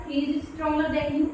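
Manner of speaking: each word spaced out slowly for the class; slow example sentence. Shown as a demonstration. Teacher slowly dictating an example to the students. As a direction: read it out slowly so students can copy.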